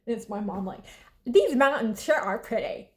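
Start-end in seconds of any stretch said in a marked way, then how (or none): 1.2-2.9 AI voice. Retold or imitated. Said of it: "In, like, an A I voice".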